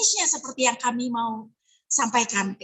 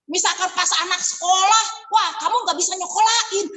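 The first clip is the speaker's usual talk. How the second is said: rude scolding agent; 4 semitones higher than usual. Retold or imitated. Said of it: "nggak juga seperti itu ngomongnya".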